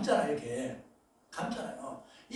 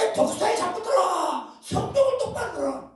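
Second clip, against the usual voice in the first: mock rebuke; 9 semitones higher, 4 dB louder than usual. Preacher voicing Jesus rebuking.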